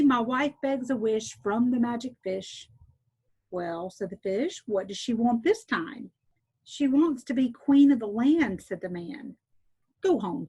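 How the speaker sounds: clear, steady read-aloud storyteller voice; story narration. A narrator's reading. Teacher reading a folk tale to listeners, gentle storytelling. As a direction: read it like a bedtime tale for children.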